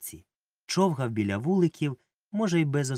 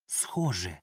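sighed; 5 semitones lower, 4 dB quieter than usual. A narrator's reading. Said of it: "зітхнув".

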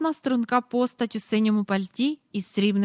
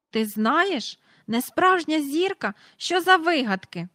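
high, louder scoffing; indignant; 7 semitones higher, 4 dB louder than usual. A narrator's reading. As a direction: dismiss the nonsense. Mr Banks indignant at Michael. (обурено перепитує)

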